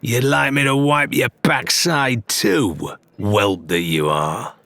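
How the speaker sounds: Ramsay mocking the pirate, sneering. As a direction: sneer down at him. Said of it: "with his face twisted in a sneer".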